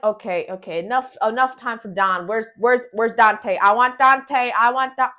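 a fan itching for Dante's return; impatient excitement. Retold or imitated. Reviewer reliving cinema impatience, eager loud demand. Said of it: "I was like".

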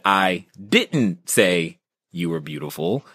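slow "I didn't say you were beautiful" with "didn't" rising; stress on DIDN'T. Retold or imitated. Speaker retelling a stage example, slowly stressing "didn't". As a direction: draw out and punch "didn't". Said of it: "the emphasis on words changes the meaning".

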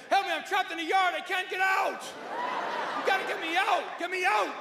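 high, urgent dog yelping in words; barking dog's plea. Acted. Trapped dog begs to get out, barking desperately. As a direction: yelp it high, words becoming repeated barks. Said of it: "What's he out there trying to say?".

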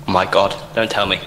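fast frightened whimper; scared whimper. Real, not acted. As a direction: plead in quick fear. Caught by monster.

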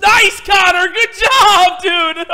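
very high, shouted praise; elated cheering. Real, not acted. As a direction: yell congratulations to your teammate. Cheers the child's win.

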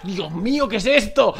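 loud excited cheering; rising thrilled exclamations; thrilled shout. Real, not acted. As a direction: celebrate the drop. Thrilled at good loot.

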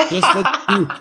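a laughing plea; laughing through it. Retold or imitated. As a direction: laugh as you urge him on. Retelling pitching French to brother.

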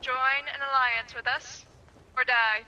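measured, deliberate threat in a put-on voice; mock threat. Offering the other ship alliance or death, mock threat. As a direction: pronounce an ultimatum, pausing before the last words. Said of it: "So now threaten him".

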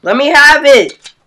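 slow, insistent demand. Real, not acted. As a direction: press each word.

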